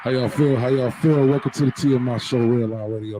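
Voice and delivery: movie trailer voice. Acted. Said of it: "I'm gonna put on my movie man voice".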